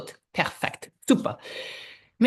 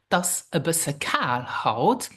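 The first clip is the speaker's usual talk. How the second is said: slow, careful "Das a bisschen kaal haut"; slow repeat; 3 semitones lower than usual. Shown as a demonstration. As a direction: repeat it slowly so learners can follow. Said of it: "you can say".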